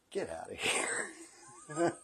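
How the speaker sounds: slow, whispered send-off; drawn-out whispery order; retold hushed dismissal. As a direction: imitate a dean hissing it under the breath. Dean of discipline dismissing him, retold.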